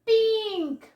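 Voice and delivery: teacher calling out the answer; loud teaching demo. Shown as a demonstration. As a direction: sing out Pink for the kids. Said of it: "cerdo en inglés se dice".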